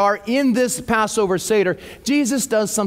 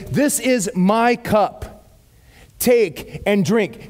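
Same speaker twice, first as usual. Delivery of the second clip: tender groom; much slower than usual. Retold or imitated. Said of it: "the groom would ... say".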